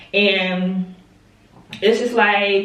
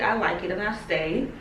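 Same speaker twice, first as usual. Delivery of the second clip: talking round a cough drop; candy in mouth; mouth full; 6 dB quieter than usual. Real, not acted. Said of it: "a halls in my mouth".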